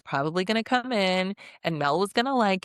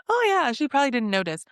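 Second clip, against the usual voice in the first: high, louder, fast mock of the girls; mocking girly voice; 7 semitones higher, 4 dB louder, faster than usual. Mocking Trinity and Anaya's flip-flop, high and fast. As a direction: imitate their sudden flip in a sing-song. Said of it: "being like".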